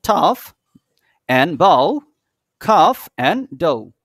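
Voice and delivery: loud, spaced-out "tough", "bow", "cough", "dough"; pronunciation model. Shown as a demonstration. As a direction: recite tough as "taf", bow "bao", cough "khaf", dough "do", loudly. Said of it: "তাহলে উচ্চারণটা কি হলো?".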